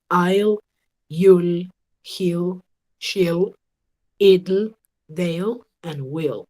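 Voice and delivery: "I'll, you'll, he'll, she'll, it'll, they'll" each said apart as one contracted word ending in L; contraction pronunciation demo. Shown as a demonstration. Teacher confirms Nicole's sounds for the class, modelling contracted "I'll, you'll, he'll" one by one. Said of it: "el sonido que nos hacía Nicole está perfecto".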